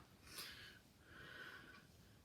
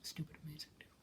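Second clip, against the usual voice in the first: unvoiced, much softer aside; under breath; 7 semitones lower, 11 dB quieter, much faster than usual. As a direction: mutter it so he won't hear. Muttered aside, -11 dB.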